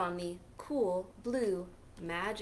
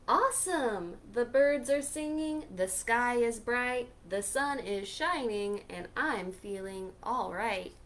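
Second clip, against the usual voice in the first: happy squirrel. Acted. Squirrel cheering with the sunglasses on, lightly excited. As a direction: sing out the good news.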